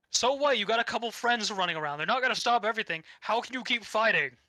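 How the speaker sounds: mock the hero's stubbornness lightly; villain voice. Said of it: "Vern being like".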